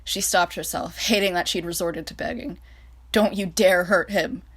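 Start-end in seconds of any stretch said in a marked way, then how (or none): 3.1-4.4 slow, louder, controlled growl. Acted. France regaining composure, growling at Reich. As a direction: hold the anger in, slow. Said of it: "she growled again after regaining her composure".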